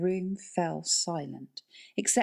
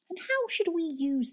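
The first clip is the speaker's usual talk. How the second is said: sarcastic whisper; 12 semitones higher than usual. Acted. Norbert scoffs at Moulton's plan.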